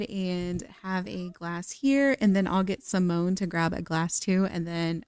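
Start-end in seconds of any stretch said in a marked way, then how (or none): none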